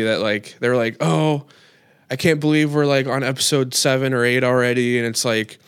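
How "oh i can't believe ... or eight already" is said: annoyed complaint. Retold or imitated. Fan imitating angry online viewers, annoyed complaint. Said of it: "so annoyed and, like angry".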